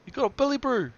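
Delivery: high, loud Kiwi voice; broad kiwi accent. Pretend. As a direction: ham up a New Zealand accent.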